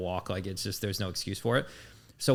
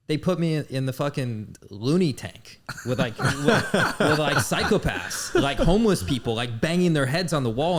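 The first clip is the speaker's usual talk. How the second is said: talking through real laughter, higher and louder; laughing; 6 semitones higher, 6 dB louder than usual. Real, not acted. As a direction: chuckle your way through the story. Laughing while recounting jail cell.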